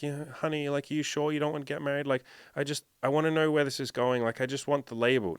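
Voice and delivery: lightly voiced needy girlfriend; tentative pleading. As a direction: gently coax a partner, hesitant. Imagined girlfriend gently asking for commitment.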